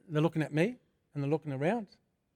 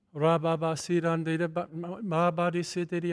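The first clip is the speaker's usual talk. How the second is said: speaking in tongues. Retold or imitated. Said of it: "I'm speaking in tongues".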